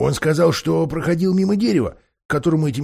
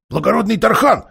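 ingratiating; 7 semitones higher, 3 dB louder than usual. A narrator's reading. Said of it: "вкратчиво говорит кот".

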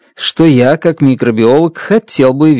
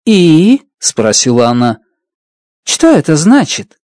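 impatient; 3 semitones higher than usual. Acted. Strat demanding explanation.

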